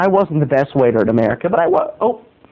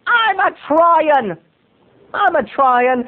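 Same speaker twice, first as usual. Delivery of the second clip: high, slow whimpering; hammed-up sobbing plea; mock whining cry; 11 semitones higher, slower than usual. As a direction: blubber pathetically. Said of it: "I said".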